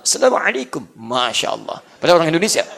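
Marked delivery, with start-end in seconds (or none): 0.0-0.8 put-on lightly Arab-accented Assalamualaikum, clipped to salamalekum. Preacher mimicking an Arab greeting with Arab accent. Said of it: "kayak orang Arab".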